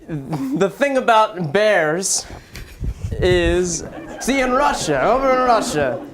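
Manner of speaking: mock Russian accent, halting at first; Putin. Player improvises Putin discussing his love of bears, light Russian accent. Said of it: "spot-on Russian accent".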